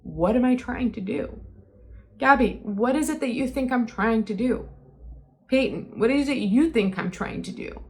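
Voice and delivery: imploring, re-enacted plea; begging. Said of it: "I kept begging the both of them".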